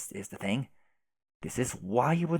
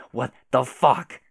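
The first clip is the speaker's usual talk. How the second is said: loud; 7 dB louder, slower than usual. Acted. Incredulous outburst in chat.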